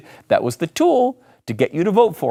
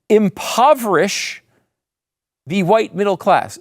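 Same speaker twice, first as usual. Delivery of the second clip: the word "white" leaned on, slow "Impoverish"; "Impoverish the white middle class" with weight on "white"; stress on white; 4 semitones higher than usual. Shown as a demonstration. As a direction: read the tweet slowly, punching "white". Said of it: "really put the emphasis on white".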